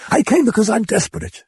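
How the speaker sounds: high, desperate blurt; blurted excitedly. Acted. Mother blurts to the priest, excited. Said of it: "she blurted excitedly".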